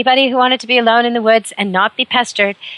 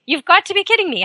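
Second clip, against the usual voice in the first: much higher, disbelieving repeat; incredulous; 10 semitones higher than usual. Acted. Host scoffing at jogger outrunning bear, incredulous high.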